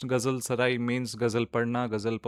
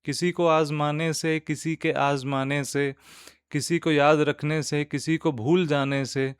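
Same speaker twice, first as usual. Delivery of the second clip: nazm recitation; 2 semitones higher, 4 dB louder than usual. Acted. Host reciting a nazm to podcast listeners, measured poetic recitation. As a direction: recite line by line, lifting the verses and letting the refrain fall. Reads the stanzas again.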